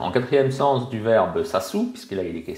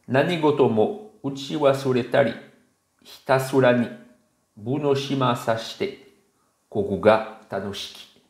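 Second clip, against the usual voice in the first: slightly raised, measured Japanese poem recitation; poem reading; 4 semitones higher than usual. Shown as a demonstration. Teacher reads the Japanese poem to viewers before explaining it, measured recitation. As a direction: read the poem aloud, pausing after each phrase. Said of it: "on va le lire".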